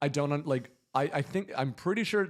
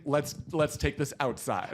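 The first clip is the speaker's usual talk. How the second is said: menacing quote; slower than usual. Retold or imitated. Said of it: "you think it's like, "I wanna fight you".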